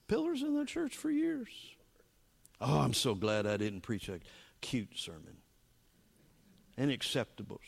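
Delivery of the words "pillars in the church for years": breathy, awed whisper of the same line; whispered echo. Shown as a demonstration. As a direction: hush it as a reverent aside. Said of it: "They were pillars in the church for years".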